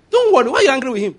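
"Don't worry" thrown out high and loud; loud, high preacher's cry; excited exclamation. Real, not acted.

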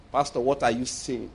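low, soft murmur to the pastor; whispered aside. Retold or imitated. Man beside the preacher challenging the pastor, under his breath. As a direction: question him under your breath. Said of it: "whispering under his breath".

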